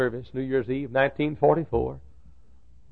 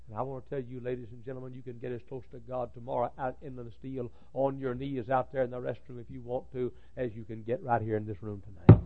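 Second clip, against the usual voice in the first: sudden hush; 8 dB quieter than usual. Real, not acted. Preacher drops voice after climax.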